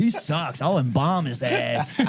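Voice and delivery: drawn-out mock threat; hammed-up grudge from an undertaker; mock angry undertaker. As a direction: play an offended listener, stretching the threat. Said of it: "audience is listening right now, like".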